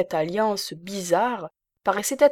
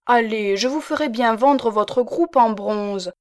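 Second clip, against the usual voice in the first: higher, louder, brisk and coaxing; bossy old spinster; 4 semitones higher, 6 dB louder than usual. A narrator's reading. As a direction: cheer him up with rough affection. Old spinster coaxing her protégé.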